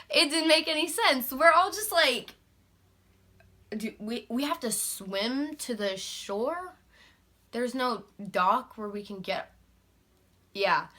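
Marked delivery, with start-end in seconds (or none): 3.8-9.5 acted bewilderment. Group's hesitant question, retold.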